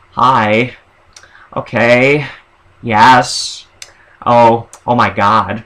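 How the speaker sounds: lightly put-on gay-guy stereotype; short, drawn-out reactions, lightly camped up. Sketch personality reacting as the gay guy, lightly camp voice. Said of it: "could be a gay guy".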